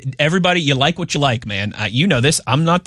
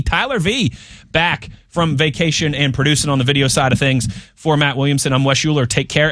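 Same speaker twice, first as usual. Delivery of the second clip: upbeat host wrapping the show; host signing off to listeners; radio sign-off. Acted.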